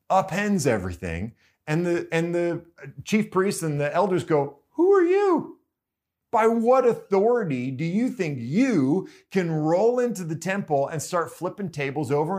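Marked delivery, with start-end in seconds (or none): 4.7-12.4 high, loud outraged demand; shrill disbelief at the intruder, raised voice; indignant challenge. Acted. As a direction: confront him like an offended elder. Priests confront Jesus in temple.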